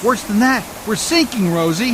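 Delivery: loud, grim warning to Rosie; grim shout. Acted. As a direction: call it out hard, no time to soften it. Boat sinking in storm.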